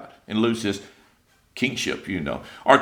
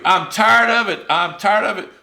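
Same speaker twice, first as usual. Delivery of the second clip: loud mock complaint, pitched up; whining; 5 semitones higher, 3 dB louder than usual. Preacher voices Israelites sick of their food, whining. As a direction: gripe it out like a tired whiner. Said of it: "whining and whining and whining".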